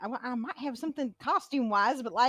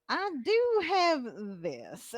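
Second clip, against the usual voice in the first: laughing; 3 semitones higher, slower than usual. Acted. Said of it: "He's gonna be like".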